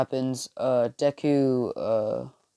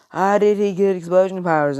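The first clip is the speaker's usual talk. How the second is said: much higher and louder outraged question; indignant shout; 7 semitones higher, 6 dB louder than usual. Retold or imitated. Bakugo outraged at Deku's explosions, loud. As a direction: demand it in disbelief. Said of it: "As he's like".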